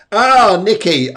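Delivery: high, loud delighted greeting; light up at the name. Real, not acted.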